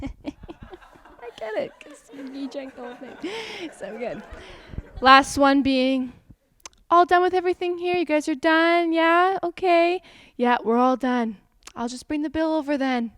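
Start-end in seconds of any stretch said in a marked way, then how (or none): 0.0-4.2 fake laugh. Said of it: "Fake laughing". 6.9-13.1 high, loud, fast cheery server voice; chirpy customer-service sing-song; bubbly server. Acted. Server checking if the table is finished, loud and bubbly.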